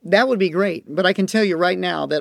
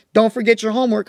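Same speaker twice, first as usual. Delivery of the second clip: reminding parent; 4 semitones higher, 4 dB louder, faster than usual. Retold or imitated. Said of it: "parents warn and remind".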